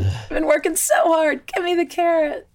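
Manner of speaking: hammed-up frustration at a dangling reward; mock angry demand. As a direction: demand the carrot like a fed-up kid. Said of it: "you get angry at the carrot".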